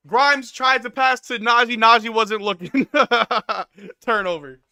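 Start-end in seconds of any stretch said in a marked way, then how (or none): none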